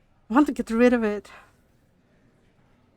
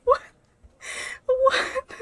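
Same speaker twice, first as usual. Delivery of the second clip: stunned what; 13 semitones higher than usual. Retold or imitated. Reacting to heroine's death.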